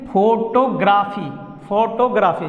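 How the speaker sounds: "फोटोग्राफी" as fo-to-graa-fee with full o vowels; "फोटोग्राफी" the common way, with a long "graa"; mispronunciation demo. Shown as a demonstration. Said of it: "जो इस तरह से बोलते हैं".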